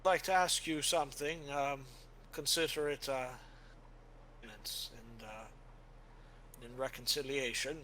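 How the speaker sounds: a solemn knight asking forgiveness in advance; earnest warrior. Acted. Helwyn asking Father for penance, earnest and formal. GM voices Helwyn addressing priest.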